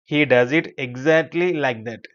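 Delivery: slow, even teacher's reading; model sentence. Shown as a demonstration. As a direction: read it slowly for learners to follow.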